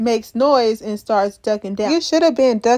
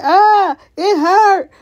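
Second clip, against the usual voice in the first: high, loud mock wail; louder cry of pain; 7 semitones higher, 6 dB louder, much slower than usual. Brick hurt and getting louder, mock pained cry. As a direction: imitate an injured man crying out. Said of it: "So Brick gets louder".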